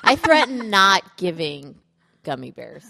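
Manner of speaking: understated stern parent; mock stern. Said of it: "threatening kids".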